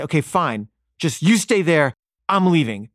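retold angry walk-out, pitch rising; mad. Parent storms off from stubborn daughter, mad. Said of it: "I'm so mad, I just storm off".

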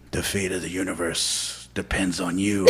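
low, soft robotic announcement. Retold or imitated. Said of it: "It was just a robotic voice".

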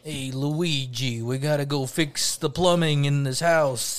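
slow New York Italian plumber; hammed-up Italian-American accent; mock New York Italian accent. Cartoon plumber calling his brother to work, mock New York Italian accent. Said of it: "slightly Italian".

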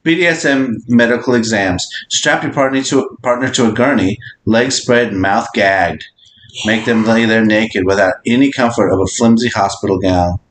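measured read-aloud delivery. Acted. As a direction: read out a scenario, evenly and deliberately. Reads out a prompt.

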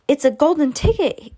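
high, loud excited shout; a shopkeeper hollering with delight; excited scream. Acted. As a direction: yell it out in astonishment. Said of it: "screamed the shopkeeper".

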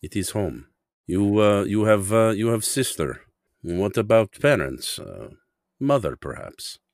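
put-on careful, halting Russian-accented English. Customer asking shoeshine boy about parents, hesitant Russian accent. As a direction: probe gently in a Russian accent. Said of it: "my accent is a very proud Russian one".

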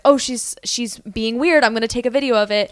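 mock bystander. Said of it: "being like".

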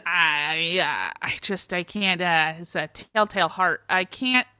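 put-on halting confession in a light Minnesota accent. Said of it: "I have to do a Minnesota accent".

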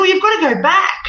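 high, loud, fast command; angry order. Retold or imitated. Angry ancestor ordering her back into her body. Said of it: "she was very angry".

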